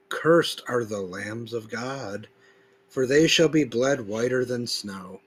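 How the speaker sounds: solemn, deliberate recitation with weighted words; emphatic scripture reading. Acted. Preacher reading verses to his audience, solemn and emphatic. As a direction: read each verse like a proclamation. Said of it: "I put a certain emphasis throughout certain words".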